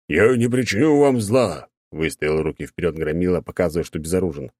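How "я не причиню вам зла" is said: big knight voice. Acted.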